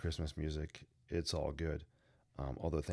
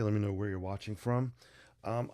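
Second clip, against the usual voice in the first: usual speaking voice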